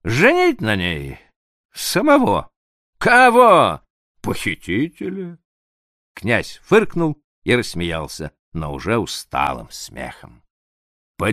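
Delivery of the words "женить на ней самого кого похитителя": through laughter. Acted. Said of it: "выговорил сквозь смех".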